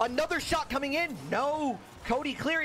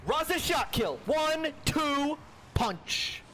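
excited shout; 4 semitones higher, much slower than usual. Real, not acted. Goal chance in live commentary.

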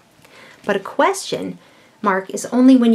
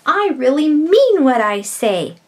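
emphatic exclamation; 5 semitones higher, 3 dB louder than usual. Shown as a demonstration. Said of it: "showing emotion or strong feeling".

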